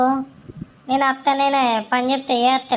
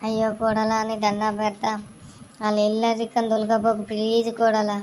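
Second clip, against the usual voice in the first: pleading; 2 semitones lower, 4 dB quieter than usual. Acted. Mother-in-law begging daughter-in-law not to leave, soft pleading. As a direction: beg her softly not to take your only son.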